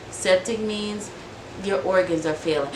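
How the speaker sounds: auntie's softened explanation; soft voice. Retold or imitated. Auntie explaining septic to her niece, soft voice. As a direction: break it gently, slowing at the start. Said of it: "she talking in a soft voice".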